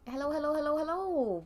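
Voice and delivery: ordinary talk, nothing marked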